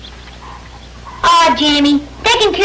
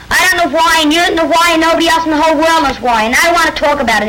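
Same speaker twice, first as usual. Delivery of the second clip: rushed, raised, exasperated; upset outburst; 4 semitones higher, faster than usual. Acted. Boy cutting off his friend's talk of death, upset and rushed. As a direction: fire it off fast, fed up and hurting. Tim snaps at Jamie about death.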